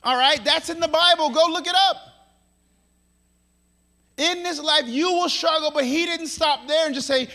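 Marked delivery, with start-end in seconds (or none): 4.2-5.7 high, forceful declaration; raised, insistent pulpit voice; emphatic preaching. Real, not acted. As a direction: proclaim it as a firm warning. Emphatic take, later repeated softly.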